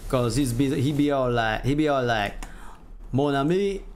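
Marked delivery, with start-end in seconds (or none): 3.1-3.8 put-on slow, lightly Cajun-accented menace; a mild stab at a Cajun accent, slowed on the threat; Gambit's Cajun accent. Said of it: "I wanna make him speak a bit like Gambit".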